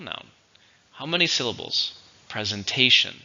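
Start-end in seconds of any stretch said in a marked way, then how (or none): 2.3-3.2 "Presentation" with TA stressed, pre-zen-TA-tion; stress on third syllable. Shown as a demonstration. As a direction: model "Presentation" clearly, leaning on the third syllable. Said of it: "stress on the third syllable".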